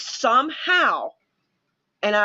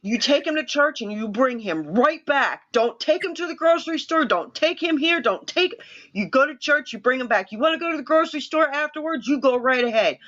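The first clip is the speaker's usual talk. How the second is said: bossy instructions; 5 semitones higher than usual. Retold or imitated. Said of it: "I'm like".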